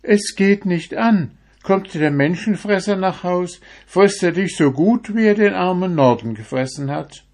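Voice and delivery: put-on high, loud old woman warning. A narrator's reading. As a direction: warn him in a high old voice. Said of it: "Die Frau aber entgegnete".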